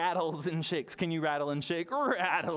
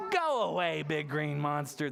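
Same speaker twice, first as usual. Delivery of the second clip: firm go away. Shown as a demonstration. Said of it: "Can we say him to go away".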